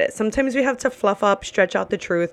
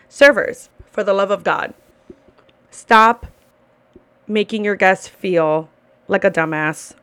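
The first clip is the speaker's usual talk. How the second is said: louder, exasperated call-out to servers; loud scolding; 4 dB louder than usual. Real, not acted. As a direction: bark the order at them. Scolding servers in her rant.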